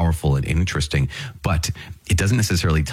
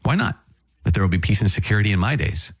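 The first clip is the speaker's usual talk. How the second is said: carefree shrug; 4 semitones higher than usual. Retold or imitated. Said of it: "For he thought".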